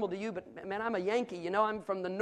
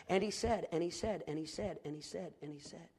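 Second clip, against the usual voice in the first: each "and he said" softer and lower until it is nearly gone; fading repetition; 4 semitones lower, 7 dB quieter than usual. Acted. Preacher echoing God's words in Genesis, fading to a hush. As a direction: let the refrain die away to almost nothing.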